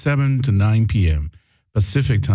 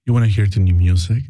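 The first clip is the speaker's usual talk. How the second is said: louder, quick promo line; louder radio voice; faster than usual. Shown as a demonstration. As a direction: push it out louder. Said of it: "just say it louder".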